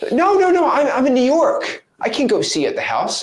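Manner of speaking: a hammed-up seller saying no; mock upset refusal. Voicing Karen refusing to visit.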